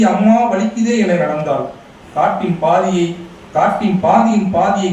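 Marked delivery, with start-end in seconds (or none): 0.0-0.9 cry of pain. A narrator's reading. Girl limping with thorn-pricked foot.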